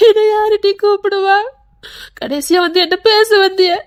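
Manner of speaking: tearful keening; sobbing lament; crying lament. Acted. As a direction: wail as you mourn. Lamenting over the departing girl.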